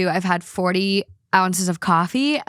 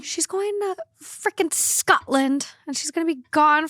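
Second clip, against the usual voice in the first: mock crying; 6 semitones higher than usual. Mock crying about friend leaving.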